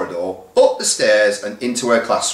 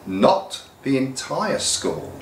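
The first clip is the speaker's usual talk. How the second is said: amused correction; 3 semitones higher, 3 dB quieter, slower than usual. Acted. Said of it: "observed Mister Wilson with a smile".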